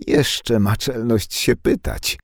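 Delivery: slow, high-pitched indignant yell. Acted. Anka yelling at Nadia for daring to ask, high and slow. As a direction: shriek it out in scandalised disbelief. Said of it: "wrzasnęła Anka".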